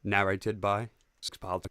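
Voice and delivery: slow, low narrator intro, stress on "by". Shown as a demonstration. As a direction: announce it slowly, leaning on "by". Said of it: "Need to prep the narrator voice".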